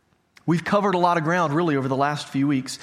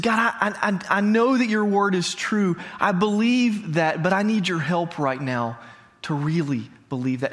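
earnest prayer; 2 semitones higher, slower than usual. Retold or imitated. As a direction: pray it haltingly, asking for help. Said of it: "Have you ever prayed something like that?".

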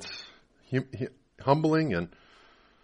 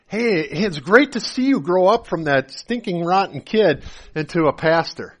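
lightly voiced admiring townsperson, a bit louder; imagined praise; 3 semitones higher, 4 dB louder than usual. Hometown folk mock-praising their pastor, mildly excited. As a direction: gush a little over the grown-up kid. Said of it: "I was hoping that I would get some praise like".

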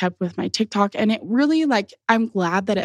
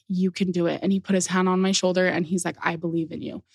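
softer, calm reassuring words from a brother; calm encouragement; 4 dB quieter than usual. Retold or imitated. Brother at her ear before the arrow, calmly reassuring. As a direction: speak gently like someone who believes in you. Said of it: "just very calmly".

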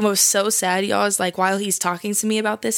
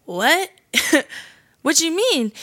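put-on startled child; 7 semitones higher than usual. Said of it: "And Austin's like".

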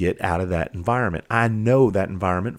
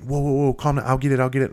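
higher-pitched imitation of wife calming him; quick mock-wife intervention, pitched up; imitating concerned wife; 5 semitones higher, faster than usual. Wife heads off husband before he reaches the kids, imitated urgent calming.

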